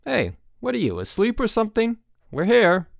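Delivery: put-on high, teasing nudge to a sleepy kid; hey kid, wake up; prodding driver. A narrator's reading. Driver prods lone boy.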